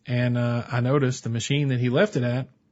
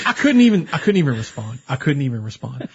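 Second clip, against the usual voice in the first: laughing; 3 dB louder than usual. Real, not acted.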